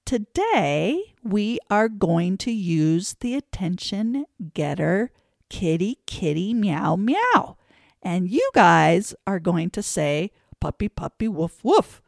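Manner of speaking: sing-song classroom chant; teacher demo call. Shown as a demonstration. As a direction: call it out to the kids. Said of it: "And so you say to your class".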